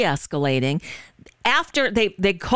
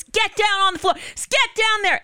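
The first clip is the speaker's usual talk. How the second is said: much higher-pitched mock yell of an officer; imitated cop yelling; 12 semitones higher than usual. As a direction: mimic a cop escalating with sharp, high commands. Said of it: "yelling at him in that tone of voice".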